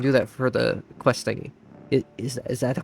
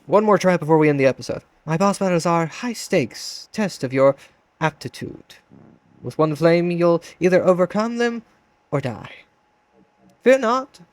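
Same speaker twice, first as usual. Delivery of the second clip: grand villain voice, louder; booming boss voice; 3 semitones higher, 4 dB louder than usual. Acted. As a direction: announce it like a game boss.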